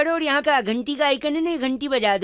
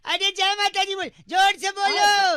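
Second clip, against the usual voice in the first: urging shout; 6 semitones higher than usual. Acted. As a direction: push him to shout it. Urging uncle to chant.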